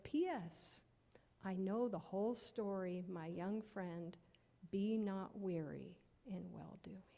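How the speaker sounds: unhurried tender letter reading; letter read aloud. Acted. Letter postscript.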